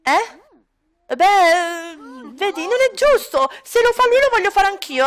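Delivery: put-on high, whining little boy pleading with dad; whiny child. Son whining to his father about fairness, high whiny child. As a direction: whine it like a kid denied a treat.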